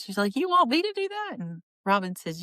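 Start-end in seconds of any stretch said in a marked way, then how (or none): 0.3-1.4 high anxious question; scared disbelief. Retold or imitated. Nervous baker asks if she must vote, scared. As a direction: ask it like you dread the answer. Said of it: "Poor Olivia is looking scared".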